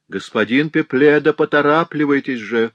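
pressing call from upstairs; insistent call. A narrator's reading. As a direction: hurry him, raising the voice. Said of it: "настойчиво повторил всё тот же голос".

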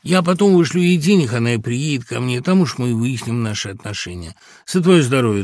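toasting a friend, relieved; sudden joy. A narrator's reading. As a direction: bubble over with relief. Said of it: "неожиданный прилив радости".

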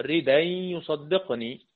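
slow recited "ردا يصدقني" with the hamza dropped; Quranic recitation. Shown as a demonstration. Teacher recites Nafi's reading of "ردا" slowly. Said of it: "لقينا إن نافع بيقرأ".

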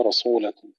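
رسولكم with seen thickened toward sad; wrong heavy seen. Shown as a demonstration. Teacher mimics students' mistake, heavy seen in رسولكم. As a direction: thicken the s of رسولكم into a dark sound. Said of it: "وهذا خطأ يكسر من الإخوة".

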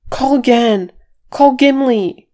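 high, loud, insistent order; urgent shout. A narrator's reading. Fili urging Thorin to call the buried, urgent shout. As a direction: shout a desperate command.

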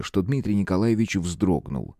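plain reading voice

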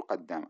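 "قد دام" as qad-dāma, one doubled د; merged dal. Shown as a demonstration. Teacher repeats the correct form, merged dal. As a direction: run "قد دام" together on a held د. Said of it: "تدغم الدال في الدال".

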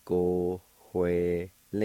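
"Go, hue, le" with an h sound before the w; careful teacher demo; Cherokee pronunciation. Shown as a demonstration. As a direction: sound out each syllable. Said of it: "It's pronounced like this".

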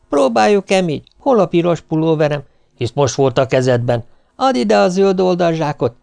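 rummaging in a panic; flustered packing. Acted. Wife packing the bags, flustered questions.

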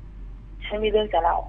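slow, soft, grave; telling friends over lunch, slow and grave; slow serious announcement. Retold or imitated. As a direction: draw it out like a solemn confession. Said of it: "พูดขึ้นมาว่า".

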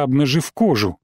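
plain reading voice

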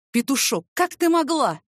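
pained, rising question; wounded, betrayed; hurt reproach. Acted. (с болью)

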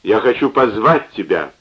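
put-on drunk rambling, words slurring; slurred drunk speech. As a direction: talk through a drunken slur. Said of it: "начал он рассуждать заплетающимся языком".

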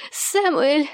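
angry wife calling insistently; hoarse angry shout. A narrator's reading. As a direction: call the name again, rising. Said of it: "охрипшим гневным голосом".

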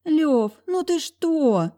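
put-on high, slow, wheedling girl's voice; high drawn-out whine from the girlfriend; whining girlfriend. A narrator's reading. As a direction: whine at him to stop. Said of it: "конючила рядом Лера".

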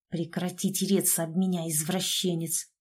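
ordinary delivery

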